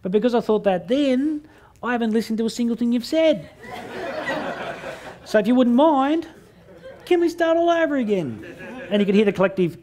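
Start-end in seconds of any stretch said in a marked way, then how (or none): 0.0-8.4 much higher, breaking into laughter; squeaky, laughing plea to start over; high giggly retold request; retold pleading. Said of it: "I said".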